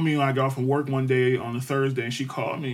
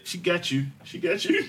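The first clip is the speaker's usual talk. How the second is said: singsong teasing; 5 semitones higher than usual. Retold or imitated. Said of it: "I said".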